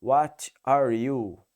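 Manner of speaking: light British accent. Shown as a demonstration. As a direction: drop the R on "are" like an English speaker. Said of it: "O inglês ele vai falar".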